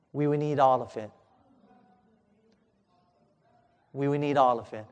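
low, hushed delivery of bad news; grave doctor. Doctor telling a father the terrible cost, grave and quiet. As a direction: break it gently and gravely, voice dropped.

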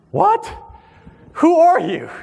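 high, surprised yelp; startled. Retold or imitated. Young man startled by a stranger, high surprised.

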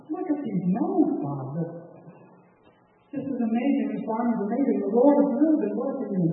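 amazed. Retold or imitated. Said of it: "the preacher's just amazed".

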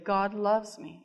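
"God loves me" said slowly, each word weighted; soft but deliberate stress on "loves"; emphasized words. Retold or imitated. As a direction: lean on "loves" in "God loves me", unhurried. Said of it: "Kind of emphasize those words".

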